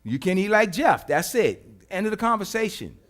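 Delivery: loud, blunt reply as God; God's voice, laughing. Acted. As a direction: brush it off the way God would. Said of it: "God said".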